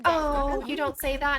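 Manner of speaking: mock-modest reply to a compliment, pitch lifted; coyly flattered. Sim coyly accepts a compliment.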